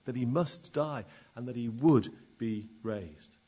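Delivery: measured sermon voice building to full force; sermon delivery swelling in places; preaching. Acted. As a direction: preach it to the congregation. Preacher reading scripture and preaching.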